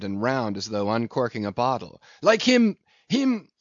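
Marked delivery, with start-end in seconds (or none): 2.2-3.5 high, halting repetition; excited groping for the word; faltering for a word. A narrator's reading. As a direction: get stuck on the word, pitched up. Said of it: "faltering hard for a word".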